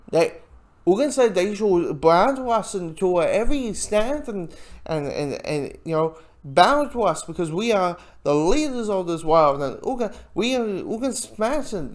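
light mock German accent, quoting a villain; a hint of German accent, half-hammed. Storefront's boast quoted in a light German accent. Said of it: "I'm using a German accent".

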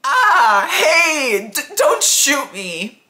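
high, loud yelp of fear; frightened squeak. Acted. Shot girl begs her attacker not to fire, squeaking in fear. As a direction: stammer it out in a squealing panic. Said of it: "She squeaked in pure fear".

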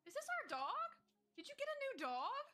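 soft, high cooing questions; high-pitched hushed delight; cooing surprise. Real, not acted. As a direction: ask high and softly, as if to a puppy. Cooing over an unexpected dog.

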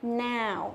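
"Now" with a full A-to-U glide; open, then round the vowel of "Now"; ao diphthong. Shown as a demonstration. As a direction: model "Now" with a gliding ao. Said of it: "Âm ao".

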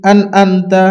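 "আন আনতা" with n in both syllables; mistaken second consonant. Retold or imitated. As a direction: say "আন আনতা" as an-anta. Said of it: "আন আনতাও নয়".

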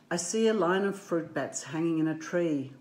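lilting storybook read-aloud; gentle picture-book narration; reading to children. A narrator's reading.

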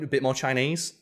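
fluent, unbothered question with a rise at the end; matter-of-fact question. Retold or imitated. Actor helping out the awkward director, matter-of-fact. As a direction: finish their sentence for them, easily.

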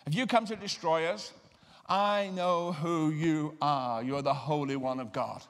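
a demon crying out, half-hearted; mild demon outcry. Acted. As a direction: demon protesting loudly, mildly acted. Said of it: "He cried out at the top of his voice".

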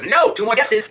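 high-pitched imp refusal; gloating imp. Acted. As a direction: crow it like a triumphant imp. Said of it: "And he laughs".

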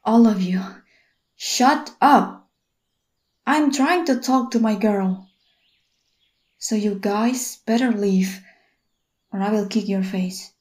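telling friends off. Acted. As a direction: warn them off, then cool down. Boyfriend snaps at her friends.

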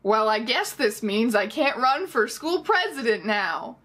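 slow, dry, deadpan delivery; deadpan to camera. Retold or imitated. Greg to the camera, Office-style, dry slow deadpan. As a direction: let it land flat and slow like a sitcom aside. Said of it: "staring into the camera and going".

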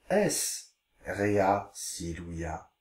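slow, careful Latin reading. Shown as a demonstration. Teacher reading Latin slowly to pupils. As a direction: read each word out slowly. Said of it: "Je vous lis les phrases".

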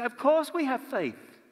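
high, very slow, emphatic answer; confident reply. Shown as a demonstration. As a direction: lay it out slowly and plainly, as obvious. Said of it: "we say".

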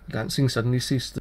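usual speaking voice

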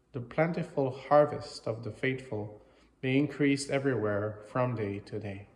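measured, slightly projected liturgical reading; formal prayer reading. Real, not acted. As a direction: read it out as a collect addressed to God. Reads the English prayer aloud.

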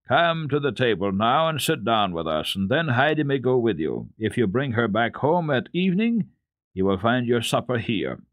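cheerful. Acted. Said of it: "The uncle then said cheerfully".

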